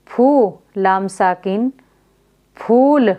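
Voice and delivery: फूल with the long u held slowly; teacher drawing out the vowel for pupils; long u drawn out. Shown as a demonstration. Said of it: "तो उसको खींचकर पढ़ा जाएगा".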